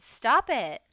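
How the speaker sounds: loud, sharp cry to stop him; shouted. A narrator's reading. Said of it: "Nicky shouted".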